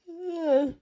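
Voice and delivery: a big, high, loud sigh let out. Real, not acted. Sighing loudly mid-explanation, then saying sorry. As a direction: heave a long sigh before apologizing.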